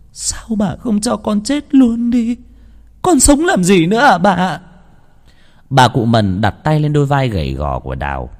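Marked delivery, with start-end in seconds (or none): 0.1-4.6 crying despair. A narrator's reading. Mother begging old woman to let her die, sobbing. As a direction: sob out the plea, broken and pleading. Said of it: "Đào bật khóc".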